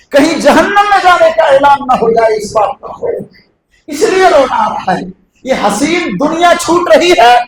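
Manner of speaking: impassioned sermon delivery with sudden swells; fervent preaching. Acted. Preacher pleading with the congregation, fervent sermon voice. Preacher impersonates a dying companion.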